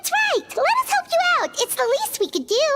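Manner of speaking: eager. Acted. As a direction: jump at the chance to help. Eager to volunteer help.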